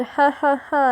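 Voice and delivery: stiff ha ha ha laugh; mock evil laugh said as words; forced laugh on command. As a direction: fake villain laugh that won't come. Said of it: "I can't laugh on command".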